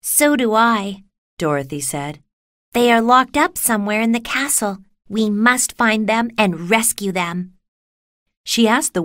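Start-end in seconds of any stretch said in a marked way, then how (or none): 0.0-1.0 put-on higher, drawn-out girl's voice; young Dorothy. A narrator's reading. Dorothy answers the lion. 2.7-7.5 lightly voiced girl, a little higher; a hint of an earnest Dorothy; determined Dorothy. A narrator's reading. Dorothy urges a rescue.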